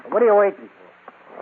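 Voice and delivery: slow impatient gangster snap; impatient demand. Acted. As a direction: lean on him, he's stalling. Gang boss snaps at stalling man.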